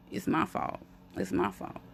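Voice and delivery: almost voiceless, soft confession; whispered self-blame. Real, not acted. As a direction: barely breathe it out to yourself. Self-blame, voice dropping away.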